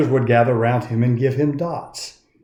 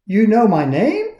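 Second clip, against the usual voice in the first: high, amazed little voice; can't believe he's known; a touch of wonder; surprised Punchinella; 8 semitones higher, 3 dB louder than usual. A narrator's reading. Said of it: "the little Wemmick asked".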